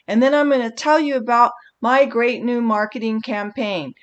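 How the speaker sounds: bad speech demo, reeling off the outline; sample pitch delivered by rote; boring memorized pitch. Shown as a demonstration. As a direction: drone through the agenda like a bad presenter. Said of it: "are you kidding me?".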